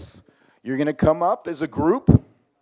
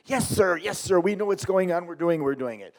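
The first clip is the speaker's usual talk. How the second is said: imitated eager-to-please worker. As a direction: rattle off reassurance as an obedient underling. Mimicking the worker's repeated assurances.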